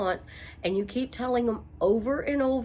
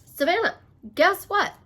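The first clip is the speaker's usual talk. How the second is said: higher and louder, bursting with news; excited announcement; 7 semitones higher, 5 dB louder than usual. Retold or imitated. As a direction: call out the good news eagerly. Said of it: "walked into my daughter's house and said".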